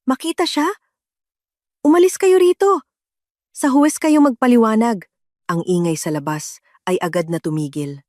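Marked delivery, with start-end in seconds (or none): 0.0-5.1 higher and louder, a brother ordering them out; icy fury rising to a shout; cold angry outburst. A narrator's reading. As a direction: drive them from the hallway in rage. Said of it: "Ang malamig na boses ng aking kapatid".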